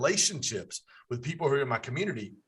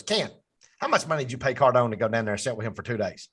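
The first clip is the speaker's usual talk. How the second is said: fast, punchy mock coach grilling him; Coach Birch impression; much faster than usual. Coach challenging him in front of the room, quick mock coach voice. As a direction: rattle it off like a coach calling you out, lightly voiced. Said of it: "in my best Coach Birch, uh, accent".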